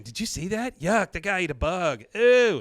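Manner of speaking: a hint of grossed-out schoolgirl; little girl grossed out. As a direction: squeal a mild "ew" like a kid. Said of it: "a little girl sees it".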